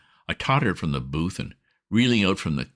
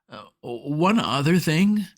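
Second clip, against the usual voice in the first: slow, breathy whispered hedge; hushed hesitation; 10 semitones higher, slower than usual. A narrator's reading. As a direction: whisper it slowly as if confessing. Bobbie hedges before bad news.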